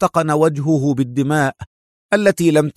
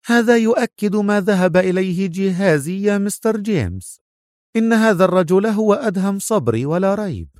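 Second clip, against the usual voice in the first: put-on higher, delighted old professor; gleeful; 8 semitones higher than usual. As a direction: crow with triumph. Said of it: "قال البروفيسور في جذل". (جذل بصوت مرتفع)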